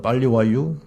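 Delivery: Chungcheong dialect demo; light Chungcheong accent. Shown as a demonstration. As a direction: finish on a Chungcheong ending. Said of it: "충청도".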